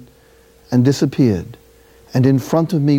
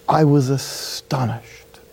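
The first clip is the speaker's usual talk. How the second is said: astonished; much slower than usual. Retold or imitated. Recalling the officer's whispered blessing.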